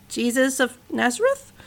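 mild, unsure rising answer; a touch of nervous doubt; a bit shakily. Acted. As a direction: say Nazareth as a hesitant question. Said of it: "A bit more shakily this time".

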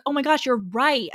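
imitated eager agreement; mock sudden realization. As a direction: act out her naive lightbulb moment. Acting out her earnest realization.

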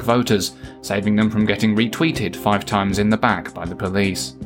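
measured satirical newsreader delivery; news read. Acted. Host signs off the show with spoof headlines, news read.

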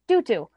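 "Doo doo" high and loud, for cookie; child's mispronunciation. Retold or imitated. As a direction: insist on "Doo doo" like a kid trying cookie. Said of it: "And he's like".

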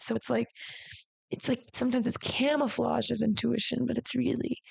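ordinary talk

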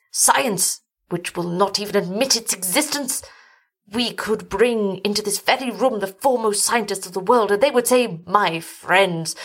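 bitterly mock the men of science; rhetorical, pitch swinging up in derision; indignant old doctor, building to mockery; scornful older man.

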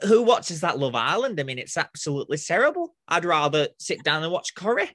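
put-on Northern English accent; best Northern accent. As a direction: grumble like a Northerner down the pub. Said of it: "speaking in my best Northern accent".

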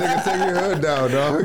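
high, joking bro voice; frat bro. Retold or imitated. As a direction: tease him like a rowdy bro. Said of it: "I said".

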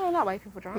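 laughing in disbelief; real laughing. Real, not acted. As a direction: crack up while repeating the phrase. Listener cracks up at remark.

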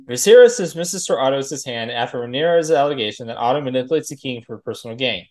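brisk-sounding recap reading with lifted sentence openings; synopsis read-aloud. Acted. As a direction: read it off the page like an episode summary.

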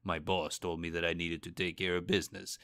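understated tough guy read for a voice reel. Retold or imitated. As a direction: play it like a hint of a movie tough guy. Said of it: "I was using my tough guy voice".

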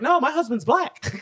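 high-pitched mock white-lady voice; eager white lady. White lady who can't wait to announce it, high-pitched. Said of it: "It's like the white lady".

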